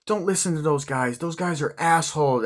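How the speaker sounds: lightly acted urging; retold consoling line. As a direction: retell it high and insistent. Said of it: "and she's crying".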